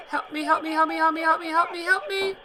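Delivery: put-on high girl's voice, panicked repeated plea; high voice, frantic pleading. Cood panicking on phone.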